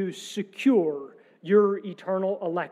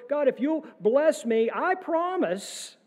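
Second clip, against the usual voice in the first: mock bargaining prayer; 5 semitones higher than usual.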